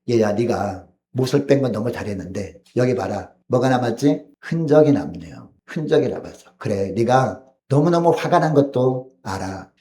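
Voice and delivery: tender father. Retold or imitated. Father tenderly teaching grown son.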